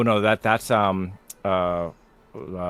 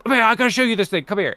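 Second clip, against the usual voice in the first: high, loud, eager call to come look; excited call; 9 dB louder, faster than usual. Retold or imitated. Friend calling his wife over, high and loud with excitement. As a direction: show it off with big excitement.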